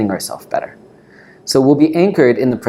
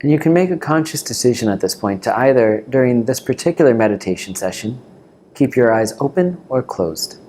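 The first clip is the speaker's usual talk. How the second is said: calm meditation teacher, long pauses between phrases; guided meditation. Real, not acted. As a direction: guide them gently into the breath, unhurried.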